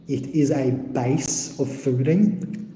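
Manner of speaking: talking around food caught in braces; words slurred by something in braces; food stuck in braces. Real, not acted. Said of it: "Sorry, I have food stuck in my braces".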